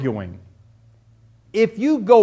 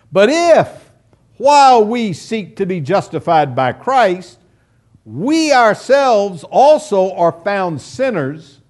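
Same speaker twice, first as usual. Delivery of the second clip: forceful scripture reading; 5 dB louder than usual. Acted.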